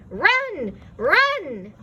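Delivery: loud urgent cry. A narrator's reading. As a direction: yell a warning. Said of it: "a voice cried out".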